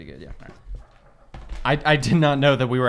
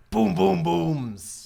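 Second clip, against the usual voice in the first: boom sound effect; much slower than usual. Pretend. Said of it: "so you don't try another sound effect".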